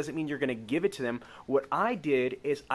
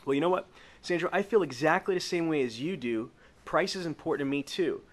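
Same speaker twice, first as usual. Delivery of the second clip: upbeat sales pitch; 2 semitones higher than usual. Acted. Salesman feel-felt-found pitch.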